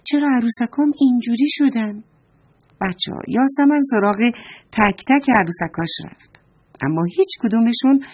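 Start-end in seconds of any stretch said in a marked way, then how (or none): 0.0-2.0 put-on a little girl baffled by her silent dolls; surprised girl. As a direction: murmur it, puzzled and amazed. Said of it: "یاسمن تعجب کرد".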